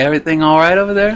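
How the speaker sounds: mocking, sarcastic jab. Retelling a player's jab at an opponent: imitating a sarcastic taunt. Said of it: "the sarcasm".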